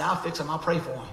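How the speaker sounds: sarcastic prayer. Retold or imitated. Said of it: "Not with that tone".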